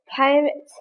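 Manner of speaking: put-on children yelling in fright; alarmed cry. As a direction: shout it like scared kids spotting pirates.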